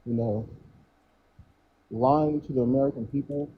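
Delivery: muffled, like through a wall; muffled mic. Real, not acted. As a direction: voice dulled by a bad mic. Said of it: "it still does sound like it's muffled".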